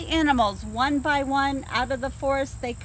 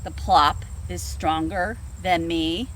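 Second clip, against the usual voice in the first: scoffing bear; 6 semitones lower than usual. Acted. Bear voiced in story.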